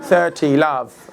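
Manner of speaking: lightly imitated British umpire; British referee announcing the score; British accent. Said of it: "he's got a British accent".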